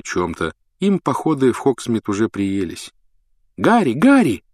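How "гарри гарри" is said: high, eager call across the room. Acted. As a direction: call a hero over. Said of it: "позвал Колин Криви".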